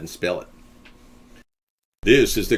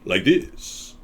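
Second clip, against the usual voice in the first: deep Montalban voice; 3 semitones lower than usual. Shown as a demonstration. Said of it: "Ricardo Montalban sounds more deep".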